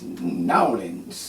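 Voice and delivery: "Nowlins" slurred together as NAW-linz; "Nowlins" in two run-together syllables with a swoop; local pronunciation. Retold or imitated. Mimicking locals naming their city, "Nowlins" as NAW-linz. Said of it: "They be like".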